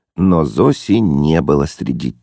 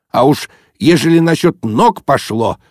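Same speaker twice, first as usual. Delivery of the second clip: subtle jab; 8 semitones higher, 3 dB louder than usual. A narrator's reading. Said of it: "тонко заметил он".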